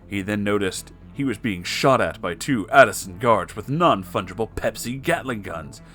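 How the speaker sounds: ordinary delivery, nothing marked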